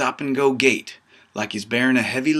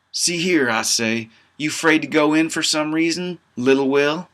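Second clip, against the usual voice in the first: mocking tease; 5 semitones higher than usual. Narrator teases Willie.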